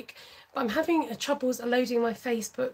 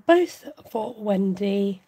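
talking through a yawn; slow yawning read; 4 dB louder, much slower than usual. Real, not acted. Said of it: "I'm yawning".

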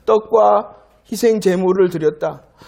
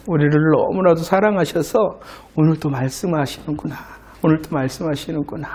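low, softened reflective voice; tender musing; 5 semitones lower than usual. Acted. Believer realises God still speaks out of love, low and tender. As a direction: muse to yourself, gently moved.

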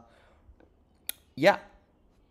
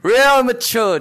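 higher, louder sarcastic jab; mock disapproval; 7 semitones higher, 4 dB louder, slower than usual. Real, not acted. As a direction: scold him in mock disgust.

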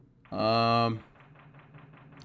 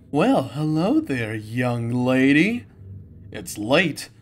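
put-on slow, vain wolf diva voice, lightly accented; Roxanne Wolf impression; slower than usual. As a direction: purr it like a self-adoring diva. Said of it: "I'll try to do my best Roxanne Wolf impression".

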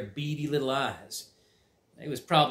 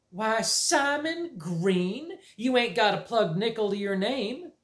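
slow, raised, stunned aunt; choked astonishment; 8 semitones higher, slower than usual. Acted. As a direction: gasp it out in disbelief. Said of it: "finally choked out".

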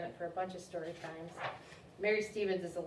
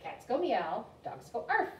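higher storybook mother voice, arf pitched up; mother correcting; 4 semitones higher, 3 dB louder, slower than usual. Acted. Mother teaching George animal sounds, patient correction. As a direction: explain it to a silly puppy.

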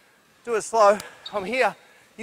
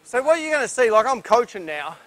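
breathless after the drill; talking while still winded; out of breath. Real, not acted. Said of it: "and I'm huffing and puffing".

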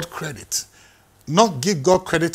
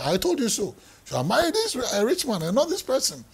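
higher, mocking I-told-you-so; mother-in-law scolding; 8 semitones higher, 3 dB quieter than usual. Mother-in-law scolding her daughter over a failed fisherman, mock high voice. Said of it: "the mother-in-law would go and say".

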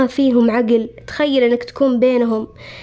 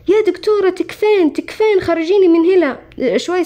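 retold plea, much higher, repeating تكفين; begging the doctor, voice pitched up high; desperate begging; 6 semitones higher than usual. Begging the doctor to release him. (رجاء يائس للطبيبة بصوت عالي النبرة)

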